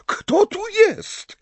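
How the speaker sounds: the seer's high, loud call into the room; high loud call of a startled old seer. Retold or imitated. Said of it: "zawołałam".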